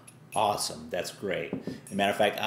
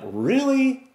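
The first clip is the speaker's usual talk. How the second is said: loud, much higher Really, then slow pleading question; exasperated plea upward; 7 semitones higher, 3 dB louder, slower than usual. Retold or imitated. Man looking up at the sky, loud then slow exasperation. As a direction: complain to the sky, slow and fed up. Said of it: "looking up".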